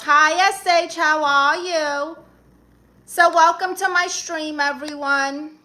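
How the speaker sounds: excited host welcome. Real, not acted. Loud livestream welcome.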